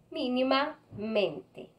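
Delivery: "mínimamente" slow, with "mente" set apart; syllable demonstration. Shown as a demonstration. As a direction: sound out "mínimamente" slowly in two parts. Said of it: "sílaba tónica".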